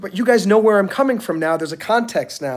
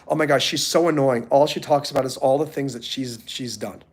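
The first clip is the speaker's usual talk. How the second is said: catty gossip; 5 semitones lower, 4 dB quieter than usual. Retold or imitated. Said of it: "You do not want anyone to say".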